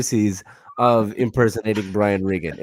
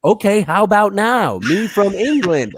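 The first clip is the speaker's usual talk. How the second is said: higher mock English accent, just louder; louder fake English; 8 semitones higher than usual. Sister retrying her English accent, only louder. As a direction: push the bad English accent higher, slower, insistent. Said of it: "she always gets louder".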